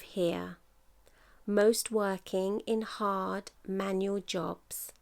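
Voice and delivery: measured poetry reading with deliberate pauses; poem recital. Acted. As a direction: recite it line by line, letting each phrase land. Reads out own poem.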